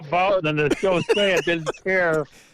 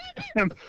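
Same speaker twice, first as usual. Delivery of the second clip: crying laugh; 6 dB quieter than usual. Real, not acted. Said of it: "He's crying".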